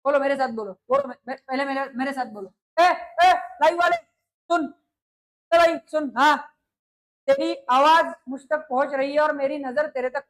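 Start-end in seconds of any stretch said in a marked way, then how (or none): 2.8-6.1 raised, higher call for attention; calling out to live viewers. Real, not acted. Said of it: "calling out to live viewers". (लाइव दर्शकों को ऊँची आवाज़ में पुकारना)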